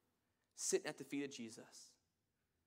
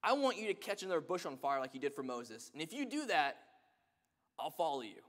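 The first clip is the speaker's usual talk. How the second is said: man's demanding calls; 4 dB louder than usual. Retold or imitated. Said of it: "He says".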